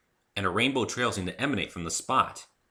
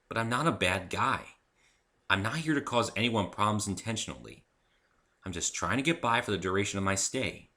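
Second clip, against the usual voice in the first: calmer tone; 2 semitones higher than usual. Acted. The human calmly offers Rainbow Dash a fresh start. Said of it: "said in a calmer tone".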